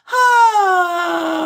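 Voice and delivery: a high "ah" that cracks. Shown as a demonstration. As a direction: let the note break on purpose. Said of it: "where you crack".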